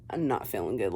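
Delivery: low, soft and drained, barely getting it out; weak sick voice. Retold or imitated. Too sick to reach phone.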